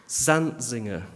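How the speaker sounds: "Zantzinger" with the weight on ZANT; stress on first syllable. Shown as a demonstration. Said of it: "with the emphasis on the first syllable".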